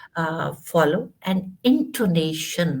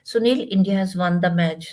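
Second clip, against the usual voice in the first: good news in a subdued, downcast voice; mildly sad, without any lift on the win; mistakenly sad. Shown as a demonstration. Teacher shows wrong intonation for a win, mildly sad. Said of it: "why you are so sad?".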